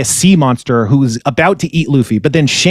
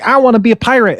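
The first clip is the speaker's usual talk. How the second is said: put-on childish plea; 9 semitones higher, faster than usual. Kid Luffy begging pirates.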